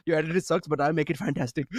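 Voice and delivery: lightly imitated Indian accent. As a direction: mimic an online messager with an Indian accent. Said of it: "literally how they say it".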